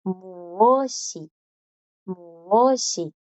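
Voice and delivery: "muoshi" with s and i run together as shi; linked syllables. Shown as a demonstration. Teacher shows how the s and i join. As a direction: blend "muoshi" into one smooth word. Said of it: "entonces suenan juntas".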